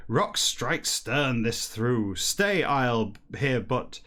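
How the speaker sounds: a touch sillier, slow and drawn out for dialogue; lightly hammed-up character voice; slightly sillier voice. Streamer reading dialogue to chat, slightly sillier voice. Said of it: "read it in a slightly sillier voice when it's dialogue".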